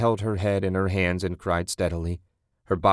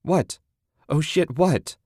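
high-pitched alarmed demand; raised, anxious, much higher voice; shouting over rain; 8 semitones higher, slower than usual. A narrator's reading. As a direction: urgently call out over the noise. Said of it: "Susan shouted over the rain".

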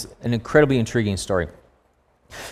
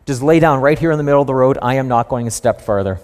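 stubborn donkey. Retold or imitated. Donkey refusing to move for Balaam, mildly stubborn. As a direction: plant your feet and say it flatly. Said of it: "The donkey's like".

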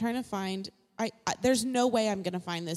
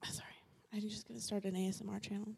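soft talk with ice crunching; 2 semitones lower, 13 dB quieter, faster than usual. Real, not acted. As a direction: mouth full of ice, quiet. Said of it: "You're still doing it".

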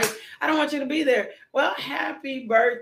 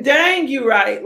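higher and loud, slow stretched "Dang"; higher loud exclaim; 4 semitones higher, 9 dB louder, slower than usual. Retold or imitated. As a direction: repeat it higher, shouting in playful agreement.

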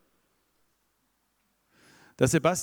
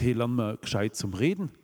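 mock scolding father. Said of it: "Der Vater hat nicht gesagt".

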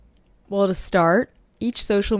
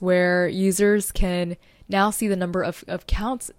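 tripping up on "of accounts"; stumbling over words. Real, not acted. Podcaster listing new analytics to listeners, stumbling over her words. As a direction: falter and repeat "of" before "accounts". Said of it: "stumbling over my words".

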